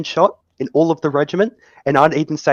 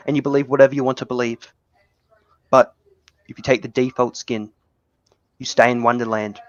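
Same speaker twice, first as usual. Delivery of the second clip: ominous movie mentor. Acted. Morpheus parody monologue.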